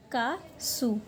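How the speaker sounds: "का सु" in two separate syllables. Shown as a demonstration. Teacher builds the Korean word for singer, "का सु" syllable by syllable. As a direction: split "का सु" with a short gap. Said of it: "syllable के हिसाब से देखें".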